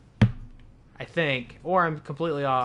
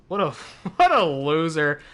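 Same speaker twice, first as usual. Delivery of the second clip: laughing; 7 dB louder than usual. Real, not acted. Mocking a defeated enemy.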